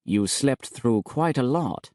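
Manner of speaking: gloating. Acted. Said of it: "a smile gloating with triumph".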